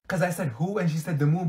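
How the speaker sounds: usual speaking voice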